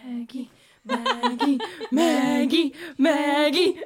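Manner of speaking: laughing. Acted. Calling friend's name in panic.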